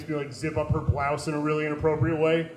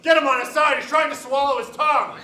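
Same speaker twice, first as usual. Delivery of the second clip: high, loud panicked yell; urgent shout; 11 semitones higher, 5 dB louder than usual. Retold or imitated. Bystander yelling during seizure.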